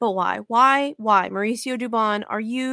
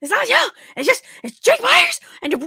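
put-on scream, higher and louder; 14 semitones higher, 7 dB louder than usual. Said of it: "I was, like, screaming at him".

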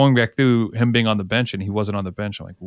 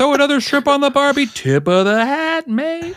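high, bad, fake Jamaican accent; 3 dB louder than usual. Asked to do an accent, speaker gives his usual one: put-on accent. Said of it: "my Jamaican top of accent".

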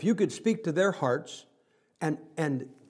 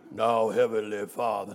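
very deep voice, dropped down low; 7 semitones lower than usual. Imitating a man whose vocal cords seem down in his shoes: very deep, low voice. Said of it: "His vocal cords are somewhere down in his shoes".

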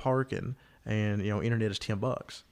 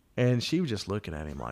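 ordinary delivery

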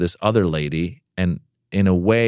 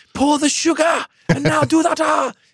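play-acted, very high-pitched, bossy screaming. Retelling a man screaming orders while dessert is made, imitating screamed orders. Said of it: "he's screaming orders like".

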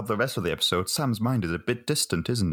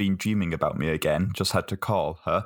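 usual speaking voice

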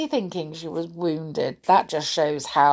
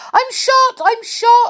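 very high, very loud, shrill, drawn-out frightened shriek; 8 dB louder than usual. The naughty doll, thinking the gun has gone off, yelling in a fright. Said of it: "yelled Amelia Jane in a fright".

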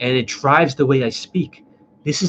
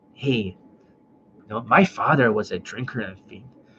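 acted villainous tone; 3 semitones lower, 4 dB quieter than usual. Showing how changing tonality changes a voice, talking in a Joker voice. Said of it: "now I can like talk like the Joker".

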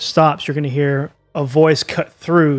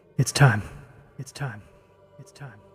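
put-on calm, smiling voice, much quieter; 3 semitones lower, 8 dB quieter than usual. Acting out how someone would look at you and say it, calm with a smile. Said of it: "just going to look at you but calm with a smile".

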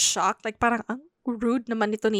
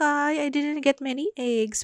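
put-on mournful, let-down, sad little lament; 3 semitones higher than usual. Retelling own words as a small child: imitating own past sadness. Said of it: "But I was sad".

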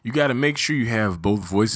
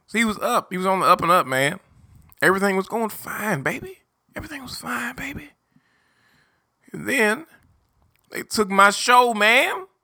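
spunky, upbeat, energetic, very high hype voice; 12 semitones higher than usual. Speaker imitating how his younger self used to talk before anything happened. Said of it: "the old me used to talk like this".

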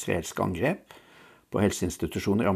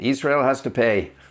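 loud, high-pitched shout; 5 semitones higher, 7 dB louder than usual. Speaker retells what they called out from the hall; retelling a shout from the floor. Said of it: "Så bare ropte jeg fra salen".

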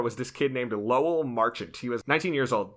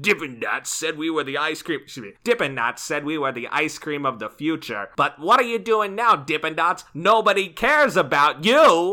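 loud, pushy, aggressive ranting; 3 semitones higher, 5 dB louder than usual. Quoting an angry tweet at Dippin' Dots in a Sean Spicer impression. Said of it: "Neither of those sounded like Sean Spicer".

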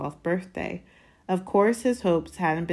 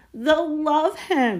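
sudden very high-pitched cry; 10 semitones higher, 4 dB louder than usual. An aunt reacts to the boy's rehearsed greeting, cried out. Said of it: "cried Aunt Petunia".

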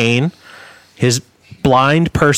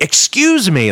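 play-acted, high, direct delivery; 5 semitones higher than usual. Retelling turning around to a man who kept kicking the seat, in a pretty loud voice. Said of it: "like in a pretty loud voice".

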